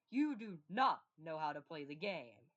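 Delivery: loud taunt. Acted. Federation taunt, first take.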